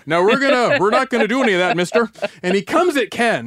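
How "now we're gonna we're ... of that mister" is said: Canadian mad. Retold or imitated. Bank manager telling off the robber, in mock polite anger. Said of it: "like, Canadian mad".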